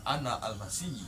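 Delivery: low, soft, stately proclamation; penuh wibawa. Shown as a demonstration. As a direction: intone it low with quiet authority. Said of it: "Intonasinya penuh wibawa". (suara rendah, tenang, penuh wibawa)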